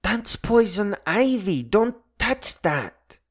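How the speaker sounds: teasing the leaf-sniffing ladies with mock alarm; mischievous warning. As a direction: fake an urgent warning with a wink. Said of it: "mischievously said".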